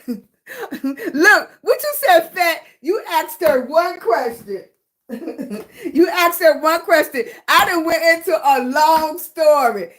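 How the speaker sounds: talking through real laughter; laughing. Real, not acted. Laughing at herself for a long answer to a viewer's question. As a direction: laugh while you own up to the rambling.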